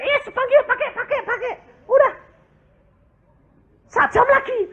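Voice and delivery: high, laughing, eager; laughing landlord. Retold or imitated. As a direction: push the key on him with a laugh.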